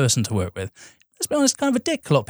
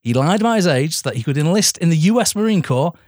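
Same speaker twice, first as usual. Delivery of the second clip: sniffly. Real, not acted. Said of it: "Oh, sorry, I'm sniffly".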